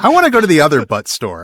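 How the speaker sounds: laughing through the words. Real, not acted. Cohost laughing at the joke about the other butt store. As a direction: say it while cracking up. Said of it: "I kinda do too".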